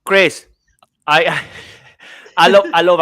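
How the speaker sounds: laughing through the words; loud, high, giggling restart. Real, not acted. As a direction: still cracking up, trying to talk. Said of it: "I cannot stop laughing".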